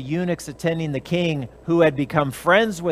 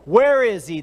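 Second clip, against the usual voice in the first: mild angry king; 3 semitones higher, 4 dB louder than usual. Acted. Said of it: "King Xerxes is getting angry".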